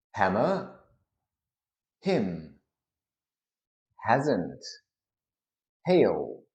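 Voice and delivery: neutral British word-list demo; standard British accent. Shown as a demonstration. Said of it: "standard neutral or standard British".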